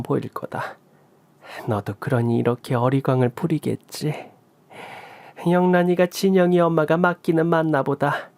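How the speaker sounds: a hint of a kind older woman, teasing and soothing; mother-in-law comforting daughter-in-law with a chuckle; lightly voiced mother-in-law. Lightly voiced mother-in-law, gently soothing.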